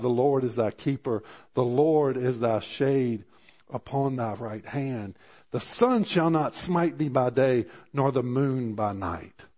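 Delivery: slow, measured psalm reading; preacher reading verse five to the church, slow and solemn; scripture reading. Acted. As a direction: let each line of the verse land, slowly. Reads verse five aloud.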